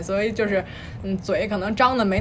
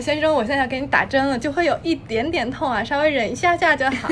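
sweet Taiwanese nurse; 3 semitones higher than usual. Retold or imitated. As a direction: coax the patient gently, Taiwanese style. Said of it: "说".

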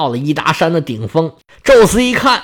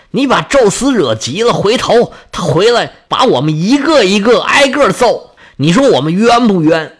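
stern rebuke. Acted. Athena holds back a furious Ares, scolding sharply. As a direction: scold him like a reckless younger brother. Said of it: "厉声斥责说".

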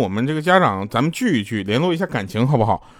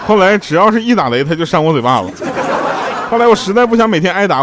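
laughing; 8 semitones higher, 5 dB louder than usual. Real, not acted. Laughing through the punchline.

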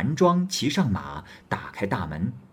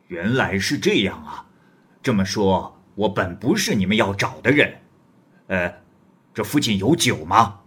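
louder, swaggering stranger voice; bold wandering hero; 4 dB louder than usual. Acted. Guest presses Li Jing about his woman, loud and swaggering. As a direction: press the young scholar like a blunt big brother.

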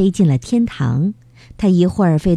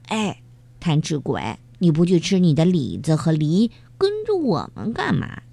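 teasing question. Acted. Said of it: "菲菲回头笑着问".

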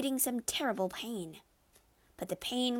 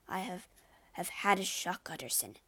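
trembling voice. Acted. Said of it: "he said in a trembling voice".

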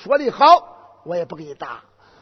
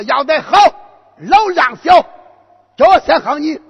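cheeky high shout; 7 semitones higher, 9 dB louder than usual. Acted. Boy demands first strike.

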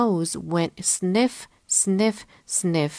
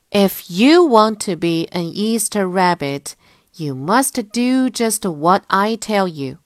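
firm, louder storybook teacher-bird; instructing Mother Bird; 2 semitones higher, 5 dB louder than usual. Acted. Mother Bird telling bunny what he must do, instructing. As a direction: lay down the steps with emphasis.

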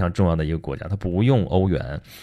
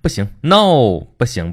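mock stern refusal; 3 semitones higher, 5 dB louder, slower than usual. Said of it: "这些事情英国全都拦着".

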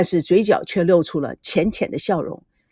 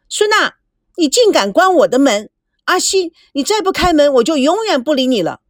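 higher shout at the locked door; shouting through the door; 5 semitones higher than usual. Acted. Meijiao shouting at Sun Na through the locked door, shouting. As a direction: yell so they hear you inside. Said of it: "赵美娇喊着".

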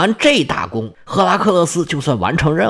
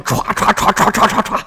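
rapid imitated swishing of snakes; a quick run of hissing swishes; snake swish sound; 4 semitones higher than usual. Storyteller mimics snakes bursting out to bind them, rapid swishing.

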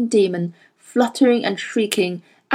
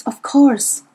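breathy whispered realisation; 4 semitones higher than usual. A narrator's reading. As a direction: whisper to herself. Whispered musing.

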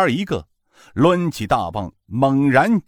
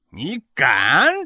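vicious growl; 3 dB louder than usual. A narrator's reading. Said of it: "恶声道".

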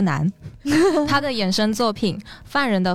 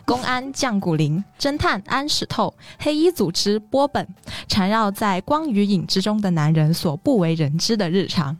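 wooden, monotone recital of a blurb; deadpan reading. Shown as a demonstration. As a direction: read it stiffly, like bad acting. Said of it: "请允许我棒读一下".

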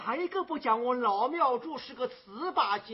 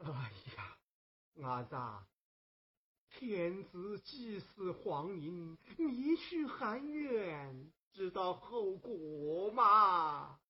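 much softer, lower and slow, voice shaking; fearful warning; 5 semitones lower, 7 dB quieter than usual. Acted. Frightened old man warning the girl of the consequences. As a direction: hush it, scared of what she plans.

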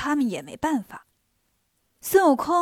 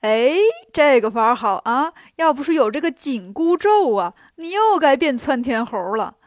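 delighted; 5 dB louder than usual. Acted. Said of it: "三老一听乐坏了".

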